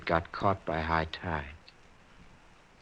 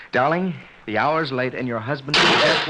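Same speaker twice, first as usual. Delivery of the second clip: menacing voice; 4 semitones higher, 4 dB louder than usual. Acted. Anonymous voice whispered in night.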